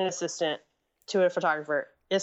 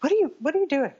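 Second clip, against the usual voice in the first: higher, louder mock scolding; retold angry boss; 9 semitones higher, 4 dB louder, faster than usual. Photographer scolding assistant over a mistake, mock angry and higher. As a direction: replay the boss snapping at his assistant. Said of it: "ripped me a new one".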